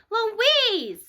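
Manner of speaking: sharp startled cry of the name; freaking out. Acted. Narrator cries out as the baby shreds her chart. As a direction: yell it in sudden panic. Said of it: "and I freak out".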